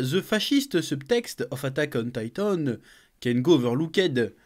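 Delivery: slow, deliberate English accent reading an article title. Shown as a demonstration. YouTuber showing off his English accent, slow and careful. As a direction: read it out in a proud French-speaker's English accent. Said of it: "avec mon accent anglais".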